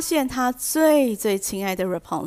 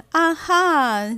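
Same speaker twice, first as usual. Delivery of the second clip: "啊哈" jumps higher and louder, taunting; mocking aha; 7 semitones higher, 4 dB louder than usual. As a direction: crow "啊哈" like a sneering witch. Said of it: "用很嘲讽的口气来说".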